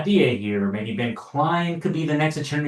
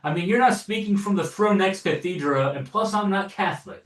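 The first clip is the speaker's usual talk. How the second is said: mock Alex Jones rant; 7 semitones higher than usual. Quoting Alex Jones rebuking the president, in a high indignant rant. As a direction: scold like a blustering podcaster. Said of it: "this is a quote from Alex Jones".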